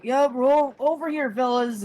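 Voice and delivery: a hint of an eager lackey reporting in; eager water elemental. Water elemental reporting the smoke to their boss. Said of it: "and, like".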